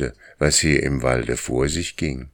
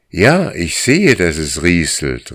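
calling back; 3 semitones higher, 4 dB louder than usual. Acted. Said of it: "rief er".

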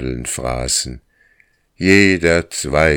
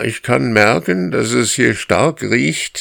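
calling back; 9 semitones higher, 3 dB louder than usual. Acted. Dog answering while running.

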